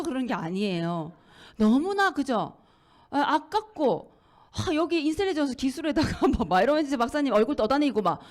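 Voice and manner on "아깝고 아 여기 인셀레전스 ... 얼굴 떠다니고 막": ordinary talk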